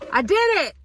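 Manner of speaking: slight lisp from new braces. Real, not acted. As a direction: talk with a fresh braces lisp. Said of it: "Excuse the lisp".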